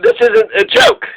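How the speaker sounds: high, whiny fake sob; mock crying. Bank begging the government for a bailout, fake sobbing. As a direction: plead like a bank about to cry.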